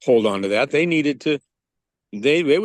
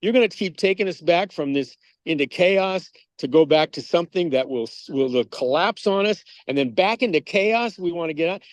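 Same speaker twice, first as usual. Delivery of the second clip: higher-pitched incredulous outburst, peaking at the end; rising disbelief, then a high what the hell; exasperated objection; 6 semitones higher than usual. Retold or imitated. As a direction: play a baffled, fed-up churchgoer. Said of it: "going like".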